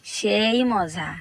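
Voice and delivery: long drawn-out satisfied praise; slow, contented savouring; relishing. Acted. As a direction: linger slowly on the delicious taste. Relishing the drink.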